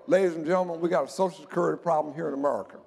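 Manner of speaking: lightly voiced Texas twang, fast; a hint of a Texan president addressing everybody. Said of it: "if I could do a, a Texas twang".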